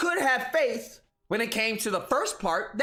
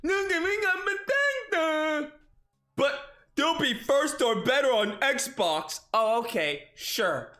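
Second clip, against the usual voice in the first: dim fanboy voice. Acted. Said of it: "this whole Tard voice thing he's doing".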